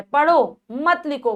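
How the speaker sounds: slow पढ़ो, break, then मत लिखो as one phrase; Pause nach पढ़ो. Shown as a demonstration. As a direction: separate पढ़ो from मत लिखो to order reading. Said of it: "पढ़ने के लिए कहा जा रहा है".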